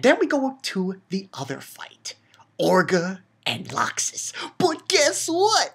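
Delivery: hushed unvoiced whisper building suspense. Real, not acted. Teasing the next fight to viewers, whispered. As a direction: whisper it like a secret before the reveal. Secretive lead-in to big reveal.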